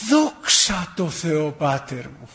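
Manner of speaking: slow, drawn-out thanks through a smile; smiling gratitude. Retold or imitated. Suffering old man answers the priest, smiling and grateful. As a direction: stretch the first words gratefully, then let it settle. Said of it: "τι χαμόγελο ήταν αυτό".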